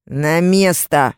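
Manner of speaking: slow, drawn-out order; yell. Acted. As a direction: bark it slowly. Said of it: "заорал Карим".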